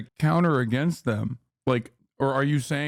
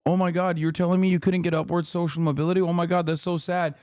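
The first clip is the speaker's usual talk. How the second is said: mock sympathetic host; 2 semitones higher than usual. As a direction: coo over a sob story. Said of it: "have him go".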